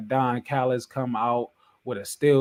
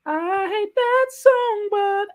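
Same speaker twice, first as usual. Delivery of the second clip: high voice; much slower than usual. Pretend. Continues in high voice after singing.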